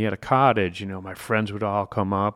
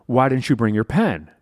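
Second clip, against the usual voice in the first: louder, higher scolding boss; angry boss; 4 semitones higher, 8 dB louder than usual. Retold or imitated. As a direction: chew him out for forgetting the pen. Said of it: "And he goes".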